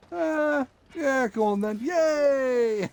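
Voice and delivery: high, cheery pretend voice saying yes; mock eager yes. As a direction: play the eager date agreeing.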